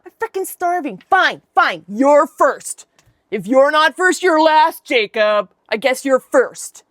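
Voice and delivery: mock fed-up surrender; pissy give-in. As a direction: snap it out like a hangry brother giving up. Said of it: "he's just pissy".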